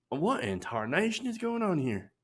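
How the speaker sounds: hillbilly twang. Retold or imitated. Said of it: "I know he doesn't talk like that".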